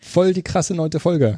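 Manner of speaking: slow, drawn-out slang bro voice; Berlin street slang. Pretend. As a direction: stretch it out like a stoned Berlin bro. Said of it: "Ist halt Berlin".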